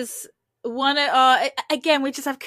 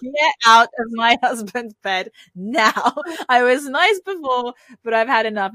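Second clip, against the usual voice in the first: retold firm order; 5 dB louder than usual. Imitating him ordering her out of bed, exasperated. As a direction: lay it down firmly, imitating fed-up patience. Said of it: "And he just goes".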